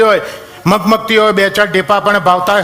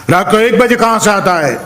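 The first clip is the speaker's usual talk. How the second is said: mock police shout; 4 semitones higher than usual. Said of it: "પોલીસે બૂમ પાડીને પૂછ્યું".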